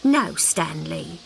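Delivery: slow, low, firm no; firm mother refusal. Acted. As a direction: put your foot down calmly. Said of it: "she said".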